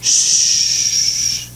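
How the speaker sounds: whispered shh to still the waves; hushing. Acted. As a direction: hush the sea like a child. Storm calming down.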